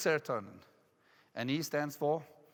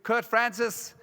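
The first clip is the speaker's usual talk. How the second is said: higher-pitched host announcing the new manager; retold excited introduction, pitched up; 3 semitones higher than usual. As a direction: play the boss introducing someone. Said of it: "and he says, "I'm very excited".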